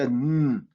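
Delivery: "N" as a held hum, nnn; isolated N sound. Shown as a demonstration. Teacher sounds out what P N leaves, held N. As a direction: hum "N" instead of naming the letter. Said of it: "that P is silent".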